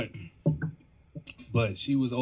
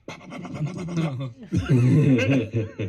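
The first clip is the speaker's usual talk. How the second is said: punch sounds; 2 semitones higher, 10 dB louder, much slower than usual. Retold or imitated. Imitating cat boxing punches.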